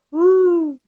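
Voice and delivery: a high, mocking "woo" of surprise. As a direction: toss off a sudden high whoop. Mimics people reacting to shutdown.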